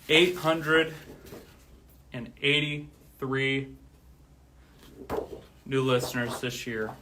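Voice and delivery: loud, slow proud announcement of the number; big announcement. Real, not acted. Streamer announcing his yearly listener count, loud and proud. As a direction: proclaim the total to the chat.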